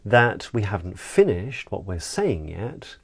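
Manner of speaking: "yet" bends down and up, unfinished; circumflex inflection. Shown as a demonstration. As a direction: keep the floor with a final lift on "yet". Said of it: "and I just did it".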